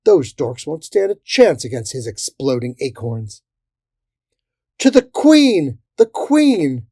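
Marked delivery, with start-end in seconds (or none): 4.8-6.9 high, drawn-out battle cry; rallying cry. A narrator's reading. Bayberry rallying the Royal Guard, high rallying cry. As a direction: call the guard to rally, slow and loud.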